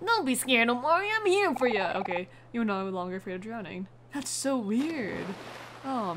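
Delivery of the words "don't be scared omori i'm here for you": Kel voice, less pushed, still higher and a bit louder; eased Kel voice. Acted. Redoing the line for a scared friend, eased Kel voice. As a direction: ease off the throat, still brave and friendly. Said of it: "am I pushing my throat too hard".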